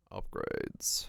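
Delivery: a dropped, breathless whisper of upgrades; whispered plea. Real, not acted. Streamer begging the game for upgrades, whispering. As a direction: whisper it like a desperate wish.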